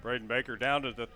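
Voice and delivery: booming stadium announcer read. Shown as a demonstration. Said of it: "Can I put my P A voice on".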